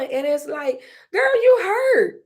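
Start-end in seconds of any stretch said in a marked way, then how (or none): 1.1-2.2 high, loud, breaking voice on the edge of tears; real crying catches in the throat; tearful self-talk. Real, not acted. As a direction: let it crack as you tell yourself you're hurting. Tells herself a hard truth.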